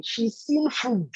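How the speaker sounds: drawn out slowly, for weight; slow dramatic reveal. Real, not acted. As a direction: let the word food land slowly. Dramatic reveal in a hunger story.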